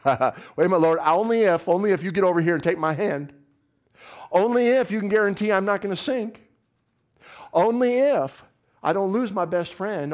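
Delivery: loud, insistent demands on God; loud bargaining. Acted. Believer loudly laying conditions on God before stepping out.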